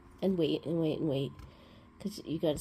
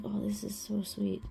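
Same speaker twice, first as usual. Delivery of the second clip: whispered aww; 3 semitones higher, 6 dB quieter than usual. Retold or imitated. Her touched reaction.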